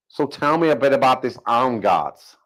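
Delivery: badly faked American speech; bad American accent. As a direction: have a rough go at an American accent. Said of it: "I'm doing a bad American accent".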